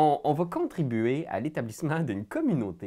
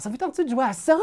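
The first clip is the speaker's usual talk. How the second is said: inviting question; 11 semitones higher, 4 dB louder, much faster than usual. Retold or imitated. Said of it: "de faire".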